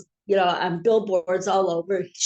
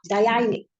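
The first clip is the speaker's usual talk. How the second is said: Dayani with a Polish Jewish "ee" ending; Polish Jewish accent. Shown as a demonstration. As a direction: show how Polish Jews say Dayani. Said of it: "That's how they talk".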